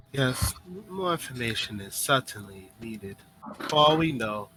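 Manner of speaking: lightly voiced wary schemer, measured with pauses; a hint of a composed character weighing a trap; woman in the tub. Woman warns Tanari of a possible test, lightly voiced deliberation. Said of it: "uh, she says".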